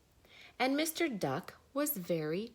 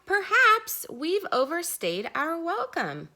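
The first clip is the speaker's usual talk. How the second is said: chick voice; 9 semitones higher, 6 dB louder than usual. Acted. Chick realizes it's unwelcome.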